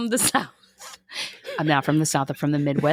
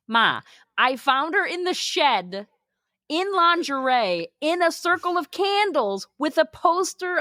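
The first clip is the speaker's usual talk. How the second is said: son's voice; 6 semitones higher than usual. Retold or imitated. Son voiced telling his mom.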